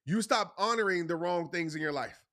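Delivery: deliberate, weighted phrasing so every word lands; said slowly. Shown as a demonstration. Speaker to viewers, slowing down so they get it. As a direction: lean on each word so it sinks in. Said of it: "I'm gonna say this slowly so you get me".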